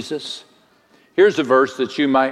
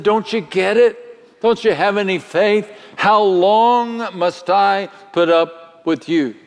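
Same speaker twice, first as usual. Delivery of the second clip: Jesus exasperated; 7 semitones higher than usual. Acted. Jesus to the faithless crowd, exasperated plea. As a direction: let the weariness rise into a plea. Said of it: "He looked at the people and said".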